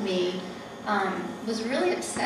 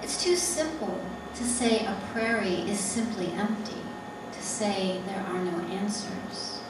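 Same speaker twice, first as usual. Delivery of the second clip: deliberate poem recital in separate phrases; poetry reading; slower than usual. Acted. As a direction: read it as verse, pausing between images. Reads her poem aloud.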